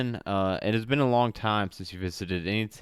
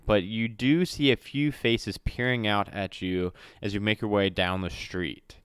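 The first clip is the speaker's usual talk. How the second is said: usual speaking voice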